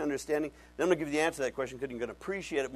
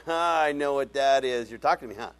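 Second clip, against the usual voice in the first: knowing aha voice; 3 semitones higher, 8 dB louder than usual. Retold or imitated. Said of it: "Now I'm going".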